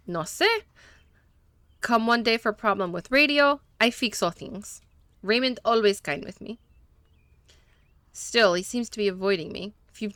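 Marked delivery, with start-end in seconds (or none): 0.1-6.6 lightly put-on Spanish accent, broken English; a hint of a Spanish-speaking mechanic, eager to please; gentle Spanish accent, a little nervous; mechanic's Spanish accent. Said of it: "that was on purpose that he was talking that way".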